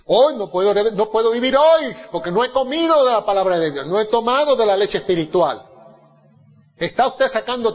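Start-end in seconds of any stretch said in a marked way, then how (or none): 0.1-5.7 impassioned cry. Acted. Preacher crying out need for word.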